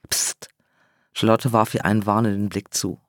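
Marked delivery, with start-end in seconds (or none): 0.1-0.5 soft, sharp shush; hushing. A narrator's reading. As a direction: hush her quickly. Hushing a friend in hiding. (leises Zischen zum Schweigen)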